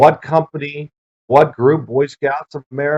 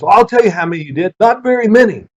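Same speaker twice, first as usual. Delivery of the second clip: coach's jab; 6 semitones higher, faster than usual. Retold or imitated. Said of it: "He goes".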